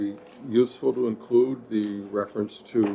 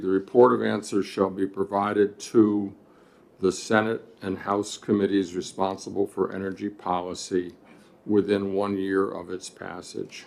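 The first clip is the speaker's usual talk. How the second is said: steady read-back, clause by clause; reading back the text. Shown as a demonstration. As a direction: read the amendment out evenly. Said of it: "line fourteen would read".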